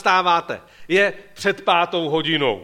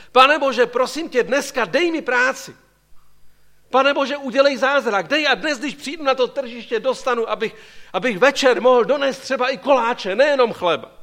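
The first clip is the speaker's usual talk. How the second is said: earnest, slightly raised pleading to God; pleading prayer; 5 semitones higher, 3 dB louder than usual. Pretend. Day labourer praying to God for work at the market, mildly pleading. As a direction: beg God for work, voice lifted a little. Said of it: "Já být v jeho roli, bych se modlil".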